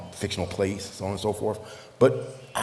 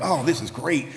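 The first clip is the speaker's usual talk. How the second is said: imitating a delighted friend, higher-pitched; happy, lifted retelling of gratitude; overjoyed friend; 6 semitones higher than usual. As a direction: gush with thanks as the quoted friend. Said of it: "he was so overjoyed".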